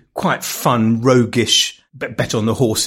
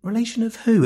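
put-on high, surprised old Jewish London accent; incredulous elderly Jewish London accent, voice jumping up; old Jewish London accent, puzzled at the young man's answer; 5 semitones higher, slower than usual. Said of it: "sorry for doing the accents".

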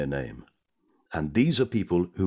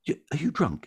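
prim bus conductress, a touch higher; hint of a bus conductress voice; lightly voiced conductress; 8 semitones higher than usual. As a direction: ask politely but suspiciously. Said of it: "the bus conductor says to him".

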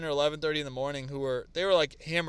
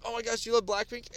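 excited fan; 8 semitones higher than usual. Retold or imitated. Excited girl quoted.

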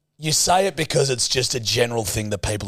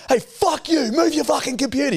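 mock grumpy coworker. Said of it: "they're like".

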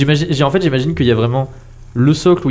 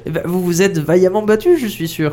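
put-on old woman voice; 7 semitones higher than usual. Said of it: "elle parle un petit peu doucement".

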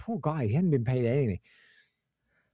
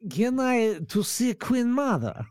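put-on Ukrainian accent; 3 semitones higher than usual. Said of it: "pretending we're from Ukraine".

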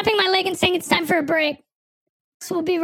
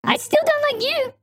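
put-on pushed up into a higher, boyish register; higher pitched; 6 semitones higher than usual. Guest pitching his voice up while teasing the hosts. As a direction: pitch it up like a squeaky kid. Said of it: "Oh, he's getting higher pitched".

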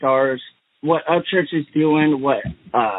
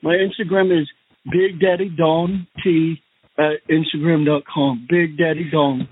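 Donald Trump impression. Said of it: "and I'm the Donnie Trump".

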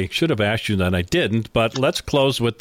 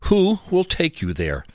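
ad read. Acted. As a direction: sell it like a radio spot. Host reads sponsor ad.

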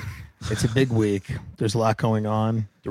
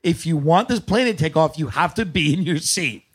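motherly pilot; 3 semitones higher than usual. Retold or imitated. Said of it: "like a mother".

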